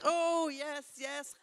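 high, loud, plummy mock impression of mum; daughter impersonating mum. Daughter mocking her mum's chat, high and loud. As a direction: ham it up as the mother, high and loud. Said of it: "he's like".

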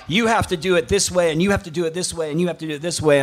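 imitating a domineering coach barking rules; mock bossy coach.

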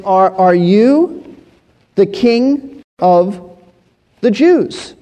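slow, drawn-out scornful question; mock him with disbelief, slowly; ridicule and scorn. Pilate scornfully questions the beaten Jesus, slow mocking question. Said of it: "It's a question of ridicule and scorn".

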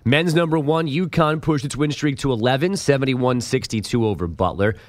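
polished radio headline delivery; scripted sports-desk bulletin; sports news read. Acted.

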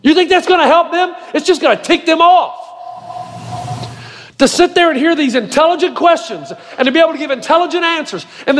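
high-pitched, emphatic pulpit delivery with weighty pauses; impassioned preaching. Real, not acted. Pastor tells congregation why students stayed, impassioned preaching. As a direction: preach it hard, punching key words.

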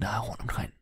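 a hushed whispered question; whispering. Acted. Burglar asking about the red lights, whispered. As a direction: whisper the question close to his ear. Sneaking past sleeping mayor.

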